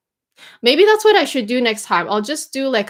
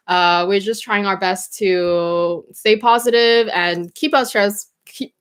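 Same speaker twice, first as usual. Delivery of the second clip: talking with a mouth full of food. Real, not acted. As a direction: speak around a mouthful of food. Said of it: "sorry, I have things in my mouth".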